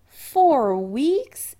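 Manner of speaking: high, loud dismayed moan. A narrator's reading. Chris hearing the long voyage, horrified moan. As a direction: moan it out in horror. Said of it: "he said in a moan".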